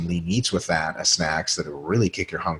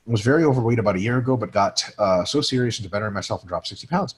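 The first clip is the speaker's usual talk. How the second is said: reads the viewer letter a little higher and brighter; reading a question; 3 semitones higher than usual. Acted. Host reading a trucker's letter on a podcast, in a reading voice. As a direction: read the trucker's message out to the audience.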